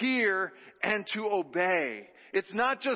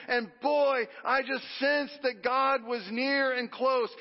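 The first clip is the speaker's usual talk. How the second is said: nostalgic believer; 3 semitones higher than usual. Retold or imitated. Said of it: "The good can be".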